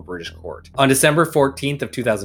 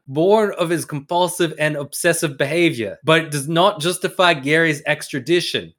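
put-on Cockney accent; 5 semitones higher, 3 dB louder than usual. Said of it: "I'll do it in my best Cockneyed accent I can".

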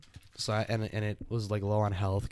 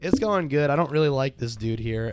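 put-on cowboy accent; 5 semitones higher, 9 dB louder than usual. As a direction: play the grumpy cowboy, loud and high. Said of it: "and they're like".

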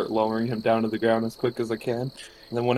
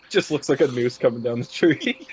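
laughing. Real, not acted. Player cracks up at noose image.

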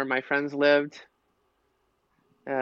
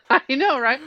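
laughing; 9 semitones higher, 4 dB louder than usual. Real, not acted. Laughing along at the joke.

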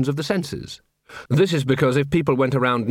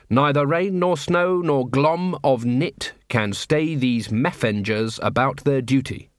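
slow, deliberate motto reading; reading out an inscription; slower than usual. Acted. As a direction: read the old motto out slowly, word by word. Reads out a carved motto.

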